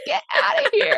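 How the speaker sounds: squeaky high get outta here; high squeal. Retold or imitated. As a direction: shriek it in disbelief. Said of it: "And I was like".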